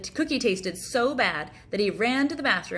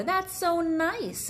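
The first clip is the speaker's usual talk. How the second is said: touched father; 10 semitones higher, much slower than usual. Acted. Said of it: "said his father".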